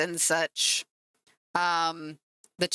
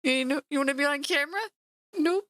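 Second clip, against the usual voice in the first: higher, quick doting question; 6 semitones higher, faster than usual. Real, not acted. Coaxing her cat onto the stream camera, sweet and quick.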